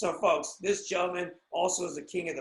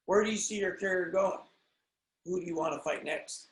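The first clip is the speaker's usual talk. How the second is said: interviewer take three; 3 semitones higher, 4 dB louder than usual. Pretend. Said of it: "Here we go, take three".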